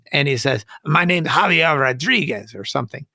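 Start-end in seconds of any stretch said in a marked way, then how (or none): 0.8-2.5 lightly imitated Hispanic accent; retold Hispanic-accented introduction. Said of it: "a Hispanic accent".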